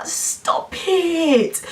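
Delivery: exasperated whisper. Retold or imitated. Pupil groaning at the teacher in a whisper. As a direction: hiss it under your breath.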